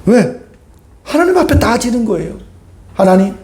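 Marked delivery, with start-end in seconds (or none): 2.9-3.3 mock protest, higher and drawn out; imitated crying out. Preacher voices Israelites complaining to God, imitated crying out. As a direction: plead upward like an exasperated complainer. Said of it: "라고 외치는 거거든".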